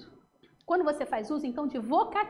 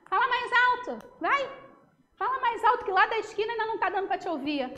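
higher, sarcastic jab; mock ironic taunt in an argument; 5 semitones higher than usual. Shown as a demonstration. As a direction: needle them sarcastically. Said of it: "tá sendo irônico".

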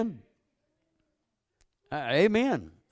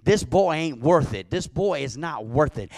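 firm motherly plea, rising and louder; mother pleading with daughter; 3 semitones higher, 4 dB louder than usual. Retold or imitated. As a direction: press it on her again and again. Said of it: "I reminded her".

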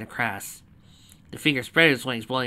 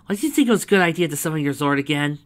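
incredulous; 4 semitones higher, 5 dB louder, faster than usual. Acted. Dizzy challenges Lyra's choice.

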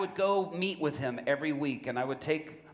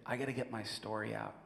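quiet confession; 3 semitones lower, 6 dB quieter than usual. Retold or imitated. Prisoner confides quietly.

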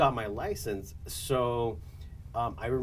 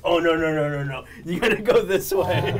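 retold alarm; 4 semitones higher, 6 dB louder than usual. Retold urgent redirecting of clients.

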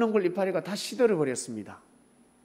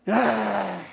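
long angry yell; frustrated yell; 2 semitones higher, 4 dB louder than usual. Acted. Jonah when nothing goes his way, frustrated yell. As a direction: let out an exasperated holler. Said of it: "막 되는 게 없다는 거예요".

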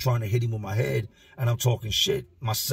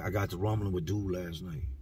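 low-key, kept-down voice; mildly hushed confession; hushed retelling; 3 semitones lower, 6 dB quieter than usual. Retold or imitated. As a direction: keep it under your breath, like he can't be overheard. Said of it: "he ain't trying to talk loud".

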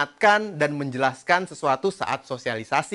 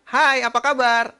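greeting pitched way up high; 10 semitones higher than usual. Shown as a demonstration. Coach demonstrating a too-high speaking pitch, high voice. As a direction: say hello in your highest register. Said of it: "Nada tinggi saya adalah".

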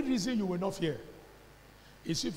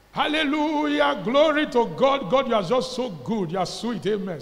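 mock praise; 3 semitones higher, 6 dB louder than usual. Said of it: "you get something to talk".

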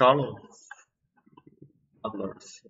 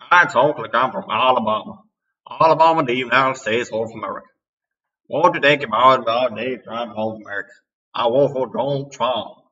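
put-on Alabama accent; 6 dB louder, faster than usual. Bragging to the camera in his Alabama accent. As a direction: play up a Southern Alabama accent. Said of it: "You like my accent? My Alabama accent?".

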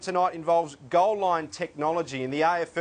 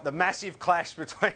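tongue-in-cheek hype with a chuckle; bill it as a big clash, half laughing; facetious. Real, not acted. Host introducing tonight's game, facetious. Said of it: "I'm being a bit facetious".

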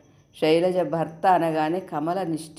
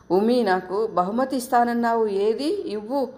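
put-on higher, playful voice for a little girl; aunt coaxing little Umi, higher and playful; coaxing a child; 5 semitones higher than usual. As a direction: coax the toddler sweetly. Coaxing a small child for gift.

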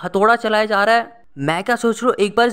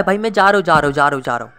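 repeated words sliding steadily lower; hasty retreat; 5 semitones lower, faster than usual. Real, not acted. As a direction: back off, voice sinking and fading at the end. Backing away from mobs in game.

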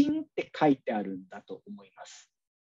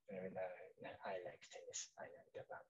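barely voiced, slow mumbled English; mumbling; 9 semitones lower, 25 dB quieter, slower than usual. Student reading aloud half-heartedly, mumbling. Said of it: "ボソボソボソボソなんだか喋っている".

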